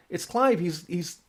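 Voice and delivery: high, pressing warning; mock urgent call; urgent alarm. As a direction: urge Steve to stop him. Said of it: "He said".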